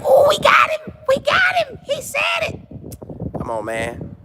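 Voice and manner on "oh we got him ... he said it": very high mock shout of triumph; gleeful reporters. Reporters gloating at Shador's slip, high mock shout. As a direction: squeal it like you caught him. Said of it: "And then they like".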